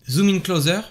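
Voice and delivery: English voice command in a French accent; French accent on a clear English order; dodgy French-accented English. Shown as a demonstration. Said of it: "vous me remerciez pour mon accent".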